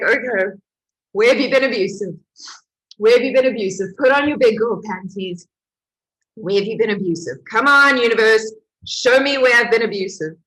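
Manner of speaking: retold furious self-talk, pushing hard; angry self-challenge. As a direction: stomp and demand an answer. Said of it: "I was so angry".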